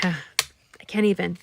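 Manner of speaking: slow, sighing, overcome; choked up. Real, not acted. Crafter remembering her late friend Laura, choked up. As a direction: let the grief stop the sentence.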